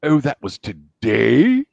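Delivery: slow, mock-sorry drawl; Scar. Scar brushing off Zazu, slow mock regret. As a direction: stretch out the fake apology. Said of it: "Scar from Lion King".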